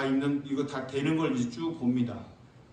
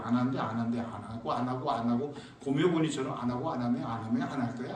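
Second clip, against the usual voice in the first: low, sulky repeated no; mock a stubborn holdout; stubborn refusal; 6 semitones lower than usual.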